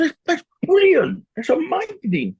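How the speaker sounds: high, drawn-out burst of encouragement; big, stretched-out enthusiasm; enthusiastic praise. Retold or imitated. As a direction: gush with delight, pitch soaring. Retold enthusiastic reply to restaurant dream.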